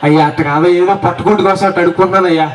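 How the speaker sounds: grovel to the man who caught the trick; pleading beggar. Acted. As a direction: caught beggar whining for mercy.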